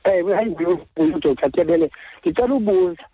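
phone call. Real, not acted. Caller on radio phone line.

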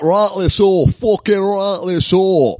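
loud, high Northern bellow; hammed-up Northern English rabble-rouser; mock Northern accent. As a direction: put on a rowdy Northern accent. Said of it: "all the Northerners from up north".

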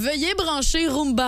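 robot voice. Retold or imitated. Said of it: "le robot aspirateur Roomba qui se met à jaser".

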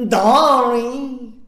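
drawn-out sugary ダーリン; sweet "darling". Shown as a demonstration. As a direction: coo ダーリン slowly at him. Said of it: "パパって顔じゃないね". (甘えた声でゆっくり「ダーリン」)

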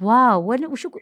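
high, loud playful exasperation; excited disbelief. Real, not acted. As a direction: act amazed at the question. Host laughs at own stumped reaction.

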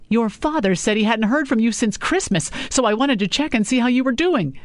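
a hint of a prodding mother; mother checking on her daughter by phone.

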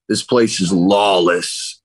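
slow, deadpan pronouncement; imitating the stoned guy's verdict. Stoned stranger telling the newcomer, slow and solemn. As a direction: drag it out like a grave truth. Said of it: "He goes".

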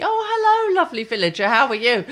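mock twee presenter. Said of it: "slow television and Kate Botley".

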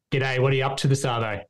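quick, casual Australian accent; everyday Aussie accent, said quickly. Shown as a demonstration. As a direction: demonstrate your Australian accent at a brisk clip. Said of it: "in your, your accent".

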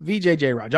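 "V J Jairaj" with "Jai" before "raj"; practised name pronunciation. Shown as a demonstration. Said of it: "I'll get it right the fiftieth time".

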